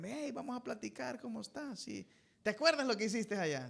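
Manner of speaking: soft, calm father; calm talk. Retold or imitated. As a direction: speak gently to the child. Padre hablando calmado al hijo. (padre hablando suave y calmado)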